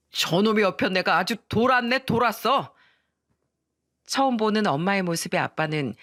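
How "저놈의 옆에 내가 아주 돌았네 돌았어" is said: indignant husband's bluster; acted dad's mildly raised grumbling; flustered angry father. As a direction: scoff at your wife while backing off.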